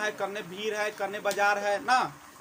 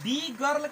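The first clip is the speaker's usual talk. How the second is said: "the" said as a long dee, pitched a bit higher; emphatic the; 4 semitones higher than usual. Shown as a demonstration. Teacher stressing which girl for students, long dee. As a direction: lean on "the girl", lengthening the dee. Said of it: "लंबा sound लेके".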